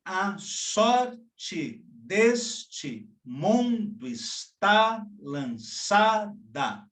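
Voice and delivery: very slow, weak-strong beats in "A sorte deste mundo"; scanning the verse. Shown as a demonstration. Teacher showing ascending binary meter, slow and stressed. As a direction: tap out the rising rhythm of "está lançada". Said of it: "como neste verso de Tomás Antônio Gonzaga".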